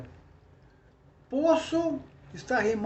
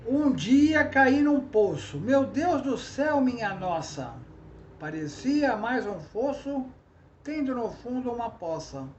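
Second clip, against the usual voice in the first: verse recitation; 2 semitones higher than usual. Shown as a demonstration. Teacher reciting an example trova, verse recitation. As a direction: recite the little verse line by line.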